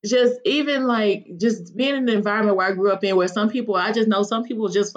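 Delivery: pushing through real emotion; emotional. Real, not acted. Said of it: "I'm getting emotional".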